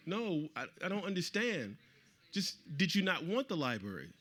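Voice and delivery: a touch of bewildered frustration; baffled protest. Retold or imitated. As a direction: push back in mild disbelief. Retold baffled challenge to the officials.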